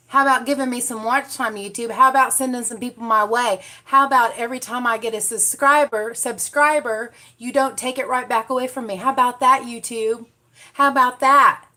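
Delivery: exasperated call-out of YouTube; mock scolding. Real, not acted.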